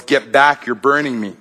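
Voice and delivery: high, loud, rushed cry of pain; pained yell. A narrator's reading. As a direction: yell as if burned. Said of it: "and the man yells".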